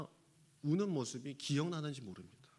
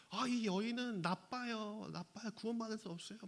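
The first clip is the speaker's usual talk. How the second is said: lightly voiced children; 6 semitones higher than usual. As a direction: lightly mimic children passing judgement. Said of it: "아이들이 막".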